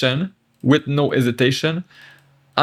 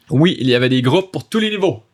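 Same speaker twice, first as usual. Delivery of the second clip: fast, joined-up French sentence; fluent read-through; much faster than usual. Shown as a demonstration. Teacher rereads the French line for learners, fast and fluent. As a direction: run it all together without a pause.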